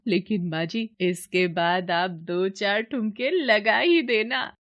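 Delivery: slow, slightly slurred tipsy bahu; lightly played drunk young wife, giddy; tipsy daughter-in-law.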